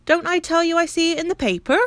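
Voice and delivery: high, loud, baffled porter; surely she's read it, he cries; an exclaiming, amazed porter; incredulous Perks. Acted. Perks exasperated.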